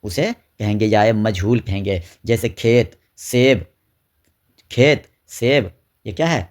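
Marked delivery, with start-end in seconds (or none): 2.5-3.6 teacher's example words کھیت and سیب, no "ee" sound; open e vowel. Shown as a demonstration. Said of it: "زیر کی آواز کو کھینچ کر نہ پڑھی جائے". 4.7-5.6 teacher's example words کھیت and سیب, no "ee" sound; open e vowel. Shown as a demonstration. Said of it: "زیر کی آواز کو کھینچ کر نہ پڑھی جائے".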